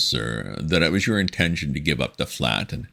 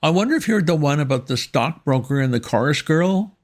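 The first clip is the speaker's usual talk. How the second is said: put-on flustered young gentleman; 13 semitones higher, 5 dB louder than usual. A narrator's reading. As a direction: stammer like a rattled young gent. Wooster voiced in story.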